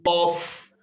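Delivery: of ending in an F; common mispronunciation. Shown as a demonstration. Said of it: "That F turns into a V".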